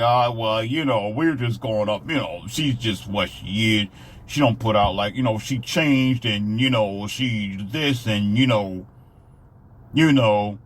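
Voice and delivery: mock dim-witted mumbling man; slow, lazy shrugging drawl of a clueless guy; imitating a lackadaisical husband, mocking; dumb man. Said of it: "that's how they talk".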